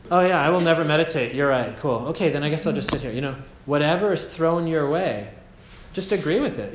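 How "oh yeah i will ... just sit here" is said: louder, fast, breezy mock agreement. Meditator agrees with the doubting voice, louder and fast mock cheer. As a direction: cheerfully give in to the critic.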